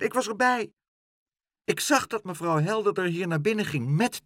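high-pitched, brisk talking pigeon; Dolly. A narrator's reading. Pigeon comforts Pluk and takes charge, high brisk chatter. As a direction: chatter urgently in a high bird voice.

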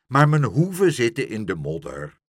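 loud, complaining protest; calling out. A narrator's reading. Horse stuck in mud, loudly complaining. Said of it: "riep Langhors".

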